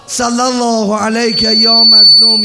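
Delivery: ringing, drawn-out cry of the salutation; loud fervent recitation. Shown as a demonstration. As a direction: call out صلی الله علیک یا مظلوم with full force. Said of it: "سه مرتبه بگو".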